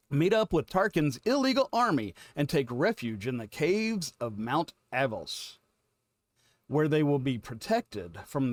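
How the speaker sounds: measured storyteller reading with stressed key words; synopsis read-aloud. Acted. Host reads the episode synopsis to viewers, dramatic read-aloud. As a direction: read it like a teaser for an adventure.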